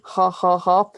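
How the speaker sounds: short breathy ha ha ha pushed out on the out-breath; exhaled laugh demo. Shown as a demonstration. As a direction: show a laugh that only breathes out. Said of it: "Humans laugh on an exhalation".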